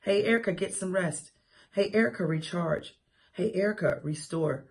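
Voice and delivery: soft, tender, fading to a near hush; gentle voice of God. Retold or imitated. God gently telling Erica to rest, soft and tender. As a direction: lovingly tell her to rest. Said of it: "God cares about me enough to say".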